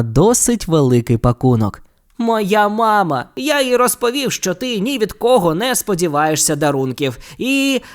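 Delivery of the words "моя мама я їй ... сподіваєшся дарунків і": put-on sheepish boy owning up about his mum; lightly voiced Ron, embarrassed.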